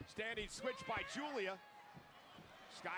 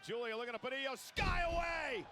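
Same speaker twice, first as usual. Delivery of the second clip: excited play-by-play; 4 semitones higher than usual. Acted. Live play-by-play call.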